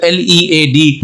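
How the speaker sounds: slow letter-by-letter spelling; teacher spelling out a word for the class; spelled out. Shown as a demonstration. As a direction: spell each letter slowly and clearly. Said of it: "जब pronounce करेंगे लीड".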